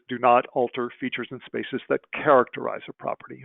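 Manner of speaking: "characterize" picked out with emphasis; stress on characterize. Real, not acted. Presenter quoting standard two to conference, stress on "characterize". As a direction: lean on the word "characterize". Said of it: "I emphasize the word characterize".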